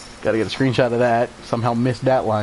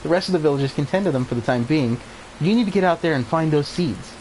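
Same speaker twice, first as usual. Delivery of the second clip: lightly voiced elder, measured and solemn; a hint of a wise old guardian; wise old village elder; 2 semitones higher, 3 dB quieter than usual. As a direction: read it like a kindly mentor giving orders. Reads wise elder's lines.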